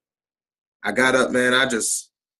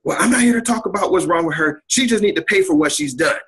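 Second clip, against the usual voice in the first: mother-in-law voice; 5 semitones higher than usual. Retold or imitated. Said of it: "my mother-in-law says".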